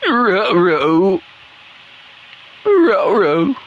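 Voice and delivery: lightly voiced cartoon dog, strained; a hint of a straining cartoon dog; Scooby-Doo. Gamer mid-match voicing a cartoon dog, light strain. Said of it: "why do I make Scooby-Doo sound like he's straining".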